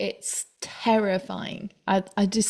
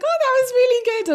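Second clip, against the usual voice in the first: impressed praise; 5 dB louder, much faster than usual. Retold or imitated. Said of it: "everyone was like".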